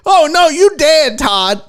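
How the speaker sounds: loud, high, drawn-out doom cry; playful over-the-top death sentence; mock lament. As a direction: wail it slowly in mock alarm. Mock lament over Todd's fate.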